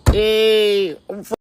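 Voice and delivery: high, hammed-up declarations; mock bad actor. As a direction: parody a fake, eager convert.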